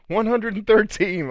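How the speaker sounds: very high-pitched mock-outraged whiner; slow, high cartoonish accusation; mad complainer, mocked. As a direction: imitate an offended critic in a squeaky, drawn-out voice. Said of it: "if someone got mad at me".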